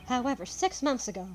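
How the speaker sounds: measured reading of a grave confession; lightly voiced character reading his will; Van Zieks with a twist. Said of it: "do the Van Zieks voice with a bit of a twist".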